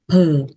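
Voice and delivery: breathy whispered "phờ"; whispered sound demo. Shown as a demonstration. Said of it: "mình sẽ đọc là phờ".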